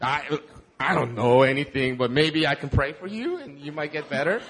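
a hint of a timid, self-deprecating voice; mock meek Jesus. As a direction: pretend to shrink and apologize. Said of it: "He wasn't like".

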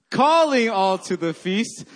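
"Calling" with CALL punched loud and high; stress on first syllable. Shown as a demonstration. Pastor leading church vision chant, stress on CALL of "Calling". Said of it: "you emphasize every syllable".

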